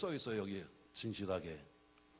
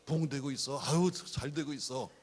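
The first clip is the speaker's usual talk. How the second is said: acted proud church member, building louder; proud boasting; 4 dB louder than usual. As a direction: start modestly, swell into a boast. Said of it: "자랑스럽게 말하세요". (점점 힘주어 자랑하듯)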